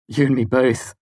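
loud, eager agreement; enthusiastic. Acted. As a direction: chime in eagerly. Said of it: "Sim said enthusiastically".

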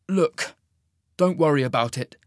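easing off after an outburst; softened tone. A narrator's reading. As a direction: back down and reassure. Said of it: "softening his tone".

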